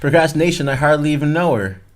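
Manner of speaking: loud punchline delivery; joke punchline. Acted. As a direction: sell the pun loudly. Pun joke, laughing delivery.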